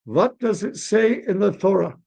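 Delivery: put-on high, swooping old rabbi voice. Old rabbi citing the Torah to fathers, emphatic. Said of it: "the old Rebbe says".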